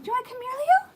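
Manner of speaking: high, loud sing-song call to the puppy; high pet voice. Real, not acted. Owner calling her puppy Leo in a high pet voice. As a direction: coax the dog over sweetly.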